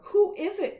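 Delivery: squeaky little pig calling out; high pig voice. Acted. Pig answering the wolf at the door, high squeak.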